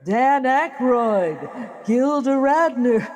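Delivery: slow announcer roll call, names drawn out; SNL announcer. Pretend. She slips into an SNL announcer voice for fun. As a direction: announce the cast like a late-night host. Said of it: "I'm turning into the Saturday Night Live announcer".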